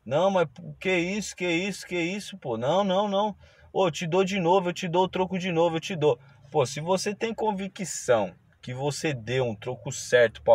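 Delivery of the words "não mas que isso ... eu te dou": flustered mock protest, a bit higher; retelling the vendor's panicky denial; startled protest. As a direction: imitate the startled vendor backpedalling. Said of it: "Aí ele já se assustou".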